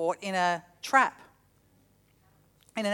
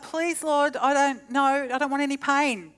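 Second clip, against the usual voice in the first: a touch of pleading; 3 semitones higher than usual. Retold or imitated. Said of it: "I'm like".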